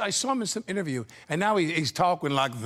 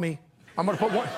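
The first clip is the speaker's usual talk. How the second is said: Pacino impression; 3 semitones higher, faster than usual. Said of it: "I can barely do it".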